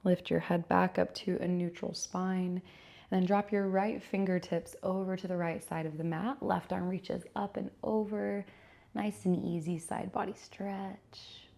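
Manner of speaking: unhurried yoga teacher cues with long pauses; measured, calm yoga-class delivery; guided yoga instruction. Acted. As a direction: guide them gently through each stretch, pausing between cues. Leads a gentle yoga practice.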